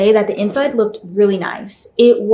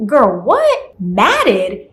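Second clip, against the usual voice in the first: incredulous reaction; much slower than usual. Acted. Incredulous reaction to being told matted.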